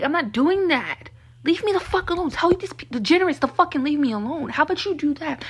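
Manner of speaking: retold furious pushback to the school nurse; indignant refusal. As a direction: push back hard at the nurse. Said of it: "And I'm like".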